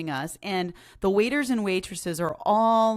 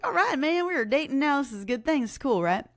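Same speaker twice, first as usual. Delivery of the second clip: excited; 7 semitones higher, faster than usual. Retold or imitated. Excited quote to herself.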